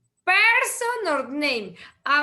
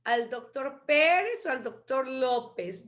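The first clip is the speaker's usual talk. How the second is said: ordinary delivery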